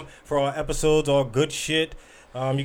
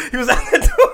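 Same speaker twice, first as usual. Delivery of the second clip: high, loud, half-laughing insistence; shouted protest; 9 semitones higher, 9 dB louder than usual. Real, not acted. Insisting to co-host that he was at the door, shouting. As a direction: yell it over the denials.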